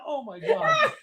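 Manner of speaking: coughing after a drink went down wrong; choking on a drink. Real, not acted. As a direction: sputter through a cough. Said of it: "that went down the wrong pipe".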